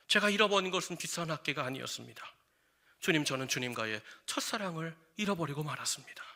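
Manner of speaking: softly retold, humble admission to God; hushed confession. Musician answering God in church, hushed confession. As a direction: confess quietly, voice sinking at the end.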